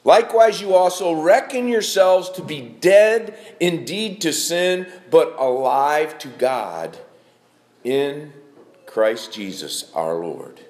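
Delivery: starts loud and slows down on the closing words; emphatic scripture reading. Acted. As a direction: pastor rereads the verse to the congregation, emphatic, slowing. Rereads the verse with emphasis.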